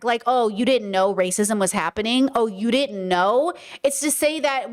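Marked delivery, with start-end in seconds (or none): 0.3-3.5 mock know-it-all questioning, slowing at the end; bragging condescension. Voicing people who brag they already knew, condescending. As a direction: lightly act out a superior brag. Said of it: "it's almost like a brag".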